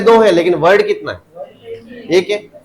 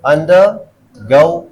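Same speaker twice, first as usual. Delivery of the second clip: undergo drawn out slowly with weight on go; stress on GO; 4 dB louder, much slower than usual. Shown as a demonstration. Teacher showing second part takes stress, stress on go. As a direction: pause after under, then stress go. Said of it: "second वाले पे आ गया".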